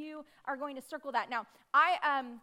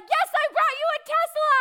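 much higher and louder cheerful announcement; excited; 13 semitones higher, 13 dB louder than usual. Retold or imitated. Retelling the candidate's imagined reply, bright high exclamation. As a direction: play the visitor, proudly presenting a gift. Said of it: "he was like".

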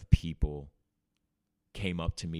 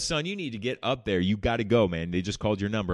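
insistent urging; 2 semitones higher, 4 dB louder than usual. Retold or imitated. Neighbor insisting.

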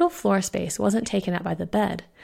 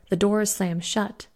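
plain reading voice

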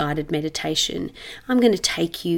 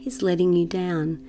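measured meditation voice with long pauses; guided meditation. Acted. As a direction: guide the listener into settling, unhurried.

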